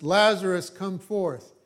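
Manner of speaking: called out high and loud on Lazarus; loud cry. A narrator's reading. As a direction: summon the dead man from the tomb. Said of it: "he cried with a loud voice".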